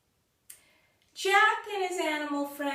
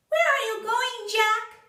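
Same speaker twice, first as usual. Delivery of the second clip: high, loud crowing rooster voice; 12 semitones higher, 5 dB louder than usual. Acted. The rooster calling out to Jack, high and loud. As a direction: squawk it up like a rooster.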